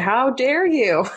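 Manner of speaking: slow, stern drill-sergeant rebuke; imitating a stern sergeant, half-playful; mock sergeant. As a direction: bark it out slowly like a sergeant scolding. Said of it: "some sergeant force".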